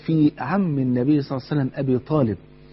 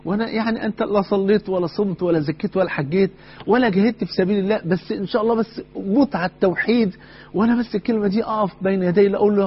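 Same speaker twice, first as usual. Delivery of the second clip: pitched up, begging him to say one word; urgent pleading; 5 semitones higher than usual. Acted. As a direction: press hard, plead with rising urgency. Prophet urging uncle, earnest plea.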